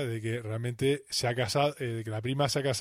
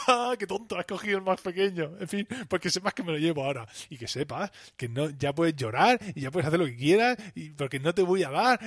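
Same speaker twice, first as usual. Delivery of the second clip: high, mocking taunt; higher mock gloating; 5 semitones higher than usual. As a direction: gloat like a spoiled child. Gloating over the bigger slice.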